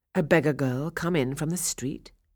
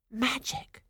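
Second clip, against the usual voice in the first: amazed; 9 semitones higher, 5 dB quieter than usual. Acted. Cinderella's amazed exclamation.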